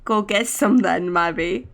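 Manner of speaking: put-on British accent. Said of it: "I can't do a British accent for too long".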